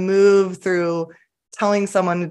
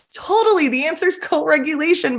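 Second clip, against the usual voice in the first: mock glib agreement; 9 semitones higher than usual. Mocking everyone's easy answer.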